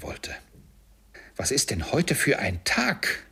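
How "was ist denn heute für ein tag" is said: put-on higher-pitched call to a boy. A narrator's reading. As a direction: call the question down from a window. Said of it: "rief Scrooge einem kleinen Jungen". (fragend hinuntergerufen)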